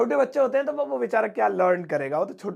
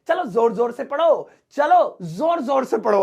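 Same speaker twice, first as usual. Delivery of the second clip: teacher's loud order; 4 dB louder than usual. Shown as a demonstration. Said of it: "next वाला है".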